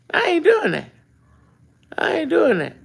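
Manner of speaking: high, firm no; emphatic refusal. Retold or imitated. Repeated refusal, high pitch.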